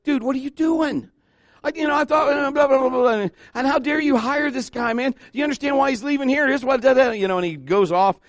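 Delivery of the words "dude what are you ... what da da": high-pitched, ranting mock outrage; acted livid tirade. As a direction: rant indignantly, pitch way up, words tumbling. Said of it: "the pastor is livid".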